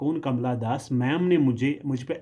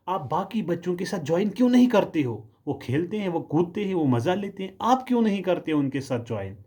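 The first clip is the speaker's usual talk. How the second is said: scolding teacher; 5 semitones higher than usual. Retold or imitated. Teacher voiced scolding the child.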